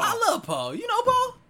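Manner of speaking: squeaky high laughing. Real, not acted. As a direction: shriek it with a laugh. Mocking song line, laughing.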